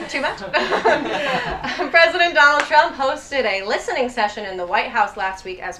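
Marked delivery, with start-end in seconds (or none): 0.4-1.9 amused chuckle; laugh. Real, not acted. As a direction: laugh off the edgy joke. Laughs after asking too much.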